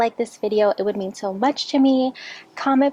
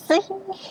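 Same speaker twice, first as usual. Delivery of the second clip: high, short giggle; real fit of the giggles; 10 semitones higher than usual. Real, not acted. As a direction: break into a high little giggle. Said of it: "She has the giggles".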